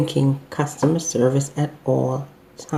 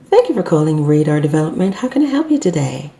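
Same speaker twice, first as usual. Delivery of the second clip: bright, friendly greeting that rises at the end; pleasing phone greeting; faster than usual. Shown as a demonstration. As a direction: greet the caller with a smile in the voice. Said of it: "And that is so pleasing".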